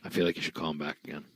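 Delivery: hushed whisper. Real, not acted. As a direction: whisper it aside. Whispering on the live call.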